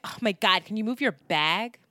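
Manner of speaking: lightly mocking snooty complainer; mildly put-on annoyed voice, lifting into the question; stuck-up woman. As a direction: imitate a stuck-up stranger's complaint. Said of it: "one of these stuck-up women".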